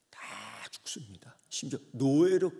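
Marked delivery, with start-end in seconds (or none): 0.1-1.4 sudden breathy whisper after the build; hushed whisper. Acted. Preacher whispers the deaths to the congregation. Lament over the children dying.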